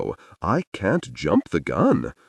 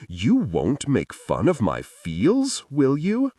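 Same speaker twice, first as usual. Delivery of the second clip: tearful plea; 9 semitones higher than usual. A narrator's reading. Tearful River pleading.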